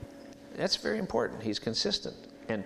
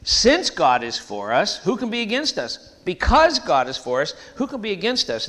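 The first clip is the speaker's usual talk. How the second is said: preaching at full force; 6 semitones higher, 7 dB louder than usual. Real, not acted. Preacher hammering the verse to the congregation, full force. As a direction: drive the corrected verse home.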